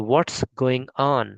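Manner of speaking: "what's" long and falling; slow American model. Shown as a demonstration. Teacher modelling the American pronunciation. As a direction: drawl it slowly like an American. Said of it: "ऐसे pronounce कर सकते हैं".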